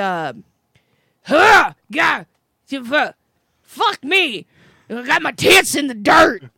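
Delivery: mock screaming. Telling the other person what they once screamed out of nowhere, retelling a scream. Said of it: "You screamed".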